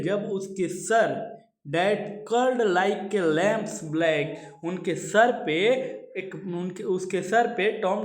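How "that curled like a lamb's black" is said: each word read out slowly; measured recitation of verse; slow poem reading. Shown as a demonstration. Teacher reads poem line slowly.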